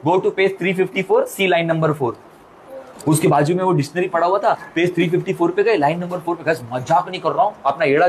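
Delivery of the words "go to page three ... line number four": slow, precise teacher's instruction; old teacher instructing. Retold or imitated. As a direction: dictate it slowly like a teacher. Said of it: "madam क्या बोलती है". (धीमे, सधे अंदाज़ में teacher का निर्देश)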